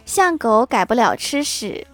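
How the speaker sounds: slow, offhand retold reply; casually offhand. Friend answers how much they love their partner, offhand. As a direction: toss it off unhurriedly, as if indifferent. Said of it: "漫不经心地说".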